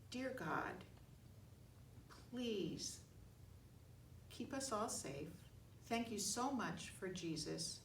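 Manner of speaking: simple prayer with long pauses; short prayer. Real, not acted. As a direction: pray haltingly, phrase by phrase.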